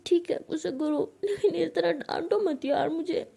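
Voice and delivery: acted crying, ending in a pouty hum; tearful pleading. Bhavna begs not to be scolded, tearful pleading. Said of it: "भावना ऐसे रो रही होती है".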